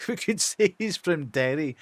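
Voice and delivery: Northern Irish accent from Derry; rough attempt at Irish. Shown as a demonstration. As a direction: try out a Derry lilt. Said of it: "give him an Irish accent".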